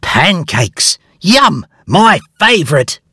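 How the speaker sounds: put-on high, eager young bear voice; a high, excited little hero; Huxley's voice. A narrator's reading. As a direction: voice Huxley bright with delight. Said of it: "he said".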